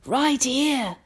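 high, savoured reveal; old grasshopper. A narrator's reading. Old grasshopper shows James his ears, high and pleased. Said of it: "the old green grasshopper said".

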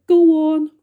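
very loud, high urgent shout; frantic cry. A narrator's reading. Creatures above the sharks urging James on, frantic shout. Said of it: "they cried frantically".

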